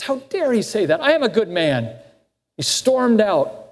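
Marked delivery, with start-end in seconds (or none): 0.0-1.9 indignant outburst, pitched up on the first words; incensed. Retold or imitated. Man storming out of a sermon, voiced with indignant disbelief. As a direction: retell his outrage with a sharp rise. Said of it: "And Louis was incensed".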